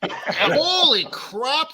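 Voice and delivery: slow, laughing exclamation. Real, not acted. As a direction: laugh it out slowly. Struggling to open the childproof lid.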